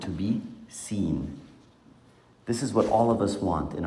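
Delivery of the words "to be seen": "to be seen" drawn out slowly and softly, weight on "be"; slow down and press "be"; slow emphasis. Shown as a demonstration. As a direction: let "to be seen" land slowly, like a key point. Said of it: "And this is very important".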